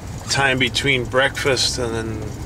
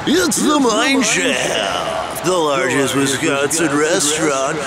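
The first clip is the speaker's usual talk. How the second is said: game show host; 3 semitones higher than usual. Acted. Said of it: "in my, uh, game show voice".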